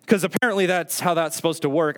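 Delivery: dry sarcasm, pitched a little up; sarcastic. Real, not acted. Preacher joking about waiting for a sign, sarcastic. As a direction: say it with mock belief. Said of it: "That's sarcasm".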